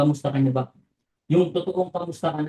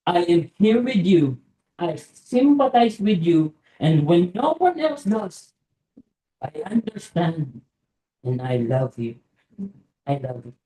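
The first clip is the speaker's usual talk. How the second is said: tender; slower than usual. Acted. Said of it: "gusto kong sabihin muli".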